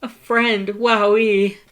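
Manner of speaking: very high, loud wonder; marveling at a new friend; delighted. Acted. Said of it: "he laughed that cute laugh".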